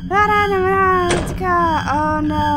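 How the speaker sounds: running patter of hammed-up helplessness; mock distress. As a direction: babble on as a damsel pretending to be chased. Mock distress while being chased.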